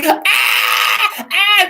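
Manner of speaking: high mock panicked cry. Disciples in the storm freaking out, high mock panic. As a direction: squeal like frightened disciples. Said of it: "we're all like".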